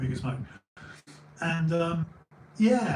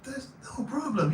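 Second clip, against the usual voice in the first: attempted Mexican accent; 10 semitones higher than usual. Homeless man waves away the reward, attempted Mexican accent. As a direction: imitate a Mexican man, pitched well up. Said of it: "I can't do the accent".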